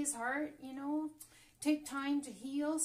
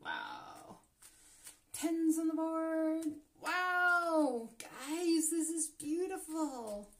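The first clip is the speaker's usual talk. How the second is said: thrilled; 5 semitones higher, 6 dB louder, slower than usual. Real, not acted. Thrilled at cards dealt.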